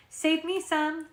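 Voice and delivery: loud little call-out; calling after them. A narrator's reading. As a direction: call it after people walking away. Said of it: "Miss Felicia calls after us".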